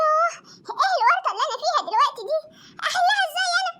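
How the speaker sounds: half sobbing in mock despair; distressed whimper. Loli alone, whimpering about her predicament.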